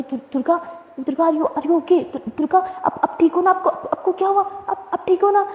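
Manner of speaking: a frightened friend calling out, rising in pitch; panicked. Acted. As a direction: stumble over her name in growing alarm. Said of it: "सिमरन एकदम घबरा जाती है".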